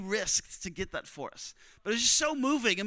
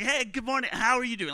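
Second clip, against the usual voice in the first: bright happy greeting, pitched up; super happy; 4 semitones higher than usual. Retold or imitated. Preacher retelling his greeting to the next guy, super happy. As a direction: greet him overflowing with happiness. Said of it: "like, super, like, happy".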